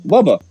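"Wubba" with a w for r; says w for r. Retold or imitated. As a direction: say "Wubba", no r sound. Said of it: "problem saying your R's".

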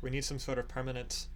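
light Irish lilt on a worried villager; a touch of Irish brogue, uneasy; Irish accent. Acted. Villager Herrick pleading with the party, light Irish accent. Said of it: "I'm doing that freaking Irish accent again".

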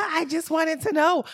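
high, slow innocent whine; mock innocent whine. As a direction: plead innocence like a kid. Retold innocent reply.

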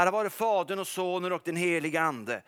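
steady liturgical recitation; recited liturgy. Retold or imitated. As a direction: chant it like morning prayer. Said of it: "Och så gjorde han så här".

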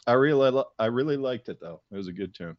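talking around a mint; words slightly slurred by a mint; mouth full. Real, not acted. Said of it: "You're slurring your words".

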